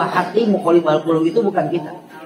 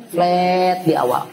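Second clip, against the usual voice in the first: flat intonation; 2 semitones higher, much slower than usual. Shown as a demonstration. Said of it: "kadang-kadang ada flat".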